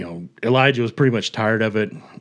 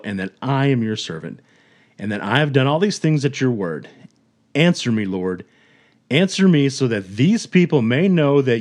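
a touch louder, solemn, fervent prayer; earnest prayer; 2 semitones higher, 4 dB louder than usual. Retold or imitated. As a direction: lift the words up to God in earnest. Elijah's prayer on Mount Carmel.

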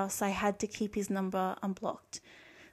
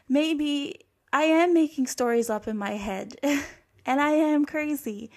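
hysterical laugh; 5 semitones higher, 4 dB louder than usual. Retold or imitated. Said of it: "I would become so hysterical".

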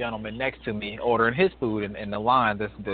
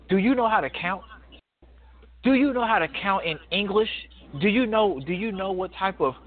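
put-on rude old man; 6 semitones higher than usual. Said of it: "and I quote".

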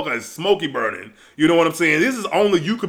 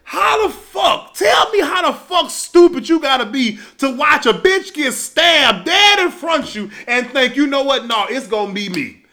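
furious disbelief; 5 semitones higher than usual. Retold or imitated. Ranting at the townspeople on screen, high furious shout. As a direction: scream at the dumb townsfolk in disbelief. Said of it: "I'm like".

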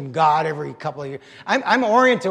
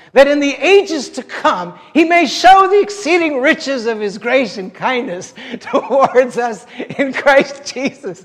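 raised, swelling scripture quotation; exultant recitation; 6 semitones higher, 5 dB louder than usual. Acted. Preacher recites the Ephesians verse that struck him, exultant. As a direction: build with wonder, dwelling on each phrase.

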